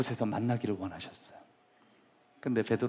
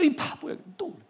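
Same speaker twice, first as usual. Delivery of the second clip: self-reproach; faster than usual. Acted. Self-reproach acted out while crying.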